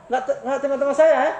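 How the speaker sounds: mock sulky accusation; mock irritated snap. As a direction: play the hot-tempered person taking offence. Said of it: "dia bilang".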